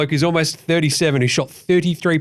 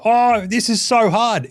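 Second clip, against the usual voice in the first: slow, whiny higher mock complaint; mock whinging; 6 semitones higher, slower than usual. Mocking players whinging about it being hard, slow whine. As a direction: drag it out like a whinger. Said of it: "Stop fucking whinging".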